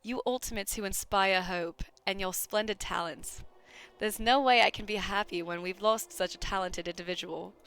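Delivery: put-on character lines in an amateur Australian accent. Game character talking of hope and despair, Australian accent. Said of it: "with the characters just as my normal talking voice".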